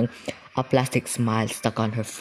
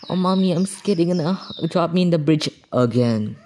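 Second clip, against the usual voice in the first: put-on high childish whine; a hint of a high creepy kid voice; 6 semitones higher than usual. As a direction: voice a small scared child. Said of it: "you just imagine a little child".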